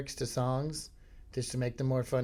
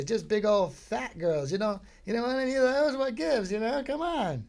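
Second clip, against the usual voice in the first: high, loud mock God voice; a pushy God nagging about fat girls; 9 semitones higher, 4 dB louder than usual. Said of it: "And God's like".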